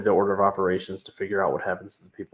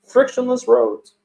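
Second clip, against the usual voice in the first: dramatic villain voice; 13 semitones higher, 6 dB louder than usual. Pretend. Villain voice for car joke.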